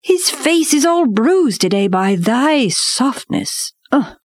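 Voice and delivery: high, slow reproach; reproachful panther. A narrator's reading. Bagheera reproaches Baloo.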